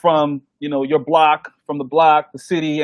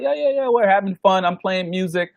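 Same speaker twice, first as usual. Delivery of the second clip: mock party hype; 3 semitones higher than usual. Grads shouting out at party.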